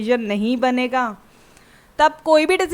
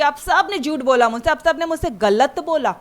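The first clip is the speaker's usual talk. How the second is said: imitating a yell; 2 semitones higher, 3 dB louder than usual. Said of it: "घर में चिल्ला चिल्ला के बोलेगी".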